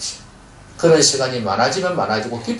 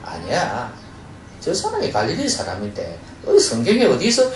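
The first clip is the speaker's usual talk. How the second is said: scoffing objector. Retold or imitated. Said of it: "반박하는 사람들은".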